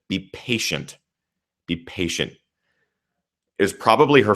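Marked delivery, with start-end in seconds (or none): 0.1-2.3 inner voice. Retold or imitated. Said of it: "something inside my mind said".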